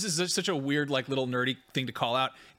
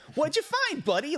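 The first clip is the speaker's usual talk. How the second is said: put-on earnest voice, higher; 14 semitones higher than usual. Imitating a game character talking to his droid like a puppy: imitating Cal Kestis, earnest. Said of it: "it's very, like, earnest".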